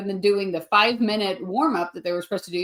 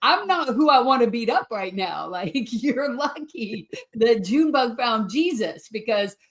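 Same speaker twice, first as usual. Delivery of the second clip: laughing mock threat. To the comic who bombed the intro, laughing mock threat. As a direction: fire back, laughing through it. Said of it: "I'm like".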